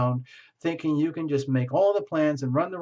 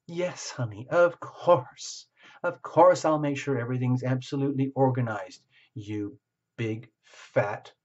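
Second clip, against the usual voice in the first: sugary compliance with a sting at the end; sweet on top, barbed underneath; fake sweet sarcasm. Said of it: "they're saying that under their breath".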